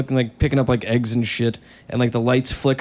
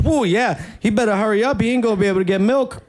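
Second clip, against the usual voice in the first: put-on old lady voice; 6 semitones higher than usual. Lady answering after thunder.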